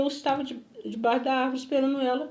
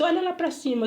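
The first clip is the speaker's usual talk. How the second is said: imitated order, pitched up; insistent higher-voiced command, acted; retold command; 5 semitones higher than usual. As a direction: order someone as the stranger did. Retold stranger giving orders.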